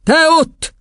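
high, sudden call; headmistress singling out. Acted. Headmistress pointing at a small girl, high call. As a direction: pick a pupil out with a high yell. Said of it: "bökött egy Tündi nevű".

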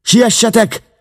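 very high, loud urgent yell; shouted warning. A narrator's reading. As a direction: call up the stairs in alarm. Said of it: "kiabálta a lenti őrszem".

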